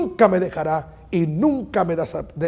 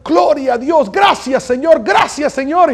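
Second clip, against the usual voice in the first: higher-pitched retold outburst of praise; mock excited cry; 5 semitones higher than usual. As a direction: imitate a young man's mild cry of thanks. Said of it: "empezó a gritar". (imitando un grito de alabanza)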